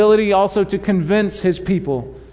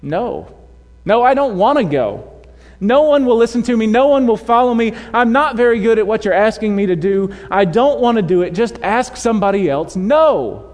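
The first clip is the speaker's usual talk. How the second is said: lightly hammed-up childish Moses refusing God; 4 semitones higher than usual. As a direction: pout like a stubborn child. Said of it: "his responses are rather childish".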